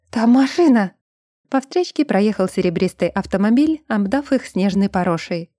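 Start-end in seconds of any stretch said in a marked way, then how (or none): 0.1-0.9 raised, high warning; alarmed shout. A narrator's reading. Elsa warning Brun of a car, raised alarmed voice. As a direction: cry out the danger. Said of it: "завопила она".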